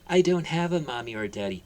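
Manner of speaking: sad reply. Acted. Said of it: "Harry replied sadly".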